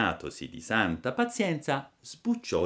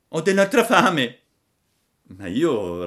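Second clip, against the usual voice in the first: high whiny puppet voice; whimpering; 8 semitones higher, 9 dB louder than usual. Acted. Pinocchio si lamenta con Geppetto, piagnucolando. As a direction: whine for more food. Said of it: "disse piagnucolando".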